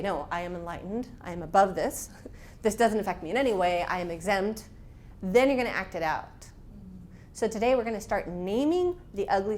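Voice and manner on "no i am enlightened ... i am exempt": mock self-righteous. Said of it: "cover it up and say".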